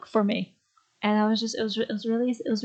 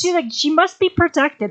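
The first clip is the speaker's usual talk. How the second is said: gushing; 8 semitones higher, 7 dB louder than usual. Real, not acted. Gushing about the actress.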